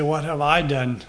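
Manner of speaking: "I" picked out as the key word; stress on I. Shown as a demonstration. Preacher showing emphasis, "I" stressed. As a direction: push the word "I", the others lighter. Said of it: "it makes a difference where we put the emphasis".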